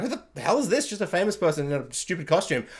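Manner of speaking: soft, sneering put-down; mock the costume quietly; dismissive scoff. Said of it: "where it's like".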